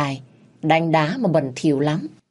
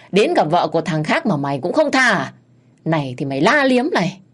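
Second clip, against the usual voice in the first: angry berating; 3 semitones higher than usual. Acted. Minh berates man while hitting.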